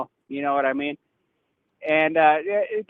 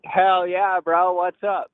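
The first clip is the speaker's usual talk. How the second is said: upbeat, slightly higher greeting; excited; 4 semitones higher, slower than usual. Real, not acted. Caller greets the podcast host who rang back, excited. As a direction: pick up the call buzzing with excitement. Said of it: "You sound a little more excited".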